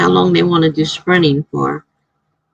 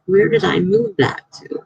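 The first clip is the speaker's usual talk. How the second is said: surprised. Retold or imitated. Can't find her timer.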